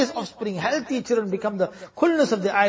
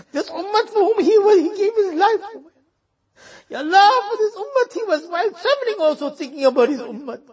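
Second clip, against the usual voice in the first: higher, voice breaking into sobs; tearful pleading; 5 semitones higher than usual. Real, not acted. Preacher weeping over the Prophet's love for his ummah. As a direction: cry through the words.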